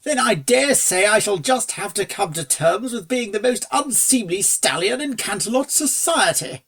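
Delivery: a touch of a dry, refined gentleman; lightly voiced aristocrat. Fancy Pants voiced.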